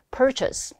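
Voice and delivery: purchase slowly modeled with a weak "chus" ending; correct purchase. Shown as a demonstration. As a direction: stress PUR in purchase, reduce the second syllable. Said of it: "라고 발음을 해주시면 되겠습니다". (purchase를 '펄처스'로 바르게 발음)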